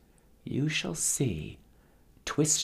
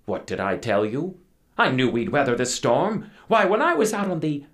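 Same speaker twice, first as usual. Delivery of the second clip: boasting captain; 3 semitones higher, 4 dB louder than usual. Acted. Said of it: "The captain boasted".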